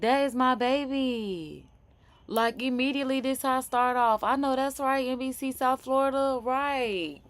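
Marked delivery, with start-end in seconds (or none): 0.0-1.7 mimicking mom. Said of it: "She said".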